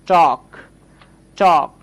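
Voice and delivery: টক as "tawk", open rounded vowel. Shown as a demonstration. Teacher models another example word, AW vowel. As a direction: say টক slowly and clearly with AW. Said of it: "অ এর মতো উচ্চারণ করছি".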